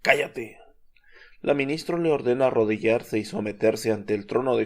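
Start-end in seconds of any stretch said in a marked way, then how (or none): 0.0-0.6 a mild, lightly voiced irritated snap from the demon. Narrator voicing the demon answering the minister: mildly irritated. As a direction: narrator hints at the demon's annoyance, understated. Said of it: "le contesta irritado".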